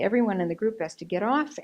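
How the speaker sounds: lightly voiced officer, quick and lifted at the end; police instruction. Police to a boy left on the train, brisk instruction. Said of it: "they say".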